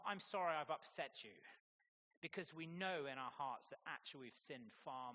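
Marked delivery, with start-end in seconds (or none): 0.0-1.4 louder, brisker non-apology; a defensive half-apology said louder; deflecting apology. Shown as a demonstration. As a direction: push the blame back with a hollow sorry.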